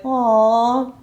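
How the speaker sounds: drawn-out melting "aww"; touched aw. Acted. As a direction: coo it like being won over. Woman's reaction to sweet words.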